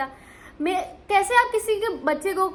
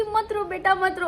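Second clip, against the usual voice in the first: soothing mother; 4 semitones higher than usual. Retold or imitated. Mother soothing crying child on video call.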